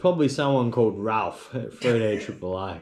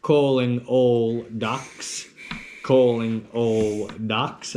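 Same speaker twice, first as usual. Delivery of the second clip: slow drawn-out calling; a hint of calling the ducks; much slower than usual. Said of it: "you hit me with a".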